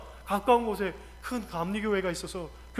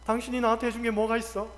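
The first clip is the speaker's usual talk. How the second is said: offhand, level-voiced reproach; thoughtless reproach; faster than usual. Wife complaining to husband, thoughtless reproach. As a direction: toss out the complaint without thinking. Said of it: "아무 생각 없이".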